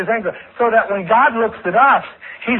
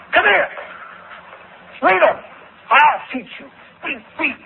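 angry parent; 6 semitones higher than usual. Retold or imitated. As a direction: bark it like a father about to hit. Angry parent beating a child.

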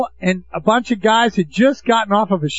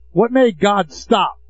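normal talking voice

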